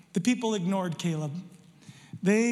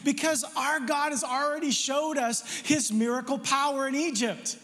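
higher, fervent preaching as Caleb; Caleb rallying the people; 4 semitones higher than usual. Acted. Caleb urging the frightened people to take the land, higher and fervent. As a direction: fire up the crowd with faith. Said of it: "Caleb said".

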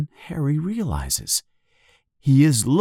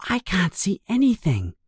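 confused; 8 semitones higher than usual. A narrator's reading. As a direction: say it as if mildly baffled.

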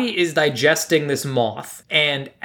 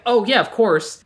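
higher, slow, knowing "of course"; sarcastic realization; 6 semitones higher, slower than usual. Retold or imitated. Host recalling her prediction about the movie, sarcastic. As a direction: drag it out with mock certainty. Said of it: "in my mind, I'm like".

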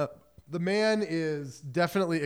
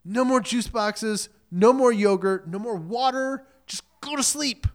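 worn-out mother; 6 semitones higher, 5 dB louder than usual. Retold or imitated. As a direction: plead like a drained mom at day's end. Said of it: "the way mothers feel at the end".

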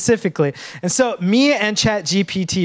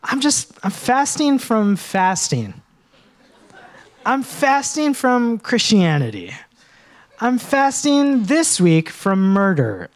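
mock excuses; 3 semitones higher, slower than usual. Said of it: "I've said the phrases".

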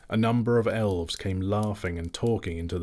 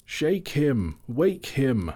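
higher, urgent shout; impatient shout; 6 semitones higher, much slower than usual. Acted. Elves impatiently shout to wake the butler. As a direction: hurry him up, impatiently. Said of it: "shouted the others impatiently".

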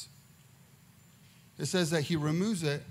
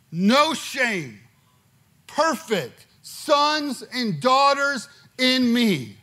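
God's forgiving voice; 4 semitones higher, 6 dB louder, slower than usual. Acted.

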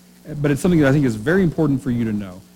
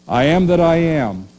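louder, ringing declaration of I am that I am; proclaiming God's name; 3 semitones higher, 4 dB louder than usual. Retold or imitated. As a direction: announce I am that I am with weight. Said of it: "He said".

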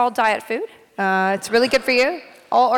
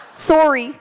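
jokey attempt at a Canadian "sorry"; bad Canadian accent; 2 semitones higher than usual. Guest jokes with Canadian fans, poor Canadian accent. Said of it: "not a good Canadian accent".

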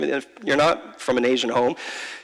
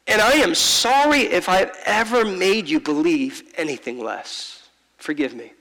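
tender father; 2 semitones higher than usual. Retold or imitated. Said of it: "he said to me".

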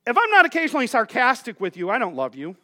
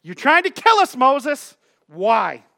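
complaining; 3 semitones higher, 3 dB louder, slower than usual. Acted. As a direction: accuse him in a raised, pitched-up whine. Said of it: "they start to complain".

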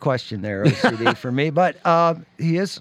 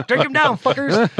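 loud, laughing toast; rowdy cheer; 6 semitones higher, 5 dB louder than usual. Real, not acted. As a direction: shout it like a bar toast. Cheering the drinking game.

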